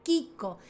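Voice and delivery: "Kiko" with a hard k sound; Italian pronunciation. Shown as a demonstration. Teacher giving the family nickname, Italian pronunciation. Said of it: "como se dice en italiano".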